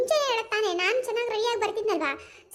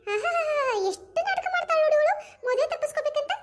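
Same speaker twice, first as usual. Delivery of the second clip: laughing; 5 semitones higher than usual. Acted. Laughing at the aunt's excuse.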